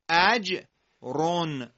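اجرون slow, ending in a clear nasal n; tanwin read as -un. Shown as a demonstration. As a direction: stretch اجرون, the final sound is -un. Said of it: "با صدای اون".

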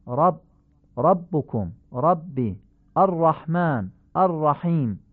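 رب and الرحمن with heavy a; Arabic fatha. Shown as a demonstration. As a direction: open short a after ر. (فتحهٔ عربی درشت)

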